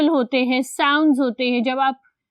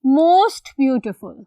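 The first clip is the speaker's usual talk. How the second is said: slow dictation; 3 dB louder, much slower than usual. Shown as a demonstration. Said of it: "for superlative you will have".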